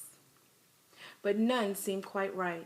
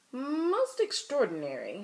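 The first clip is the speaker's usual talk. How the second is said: amazed doctor; 3 semitones higher than usual. Acted. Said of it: "he exclaimed".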